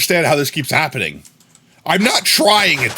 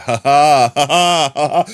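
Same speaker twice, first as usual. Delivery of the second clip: fake laugh; 5 dB louder than usual. Real, not acted. Laughing at own pun.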